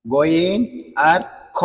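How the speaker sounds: গইন and খ slowly, from the throat's end; slow, deliberate throaty গইন and খ; demonstrating articulation. Shown as a demonstration. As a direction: separate গইন আর খ, each a careful throat sound. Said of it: "হলকের শেষ থেকে".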